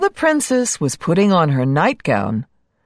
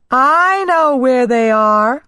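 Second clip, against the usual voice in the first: laughing; 5 semitones higher, 4 dB louder than usual. Acted. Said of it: "she laughed".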